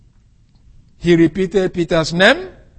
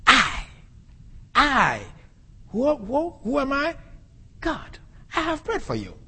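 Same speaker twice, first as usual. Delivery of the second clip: emphatic Jesus; 7 semitones higher, 8 dB quieter than usual. Retold or imitated. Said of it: "So here Jesus is emphatic".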